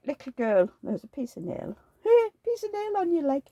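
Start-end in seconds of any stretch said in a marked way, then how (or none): 2.0-3.4 laughing. Real, not acted. Laughs at nail on girl's leg.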